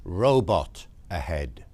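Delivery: slow, low read-out of a sign; measured sign reading, falling at the end. Acted. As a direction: read it out slowly, word by word. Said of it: "and it says".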